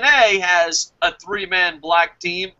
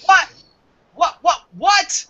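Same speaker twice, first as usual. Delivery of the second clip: high-pitched mock double take; mock disbelief; 4 semitones higher, 3 dB louder than usual. Reacting to an absurd KKK announcement, mock disbelief. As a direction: act baffled, halting them with repeated words. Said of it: "You're gonna be like".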